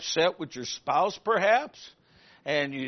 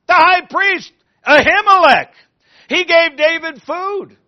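loud, higher, eager tattling; eager informer; 5 semitones higher, 8 dB louder than usual. Acted. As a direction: Doeg eagerly telling the king.

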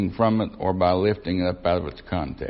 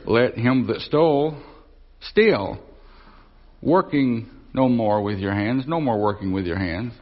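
misleading pauses in the verse; twisted emphasis. Shown as a demonstration. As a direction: pause after stole, then working no more. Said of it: "you can emphasize it in a certain way".

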